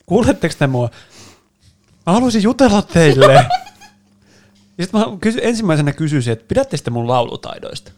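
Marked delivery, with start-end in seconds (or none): 0.0-0.9 mock call out. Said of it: "Aina mä huudan sinne". 2.0-3.5 higher, laughing; amused laughing line. Real, not acted.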